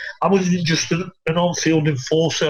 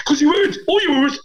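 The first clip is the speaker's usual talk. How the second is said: much higher, laughing through the words; real laughter breaking into the telling; giggling so hard the voice jumps up; 10 semitones higher than usual. Real, not acted. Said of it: "I'm fucking crying".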